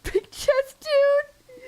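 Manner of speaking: loud high squeal; excited yell. Real, not acted. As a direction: yell it out in delight. Excited shout at game character.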